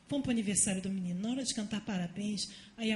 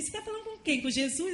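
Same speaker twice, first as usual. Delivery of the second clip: a lightly voiced little boy asking, raised pitch; child's question; 7 semitones higher, faster than usual. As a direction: playfully imitate the curious son. Son asks mother in story.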